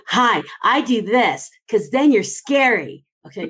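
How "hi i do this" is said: forced grin voice. Shown as a demonstration. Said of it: "You don't wanna do".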